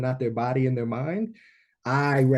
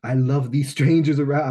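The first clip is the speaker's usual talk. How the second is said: loving awe; 3 dB louder, slower than usual. Retold or imitated. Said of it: "powerful experience of like".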